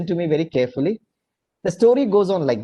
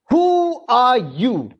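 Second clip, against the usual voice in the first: a mildly raised, hammed-up yell; mock shout; 4 semitones higher, 3 dB louder, much slower than usual. A narrator's reading. Japanese president yells at the American president, mock shout. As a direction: fling the question out as a lightly acted shout. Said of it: "shouted at his top of his voice".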